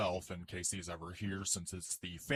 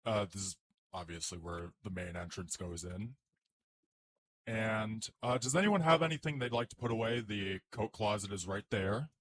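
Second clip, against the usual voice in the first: realtor; 3 dB louder than usual. Acted. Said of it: "Iron Man doing his best realtor impression".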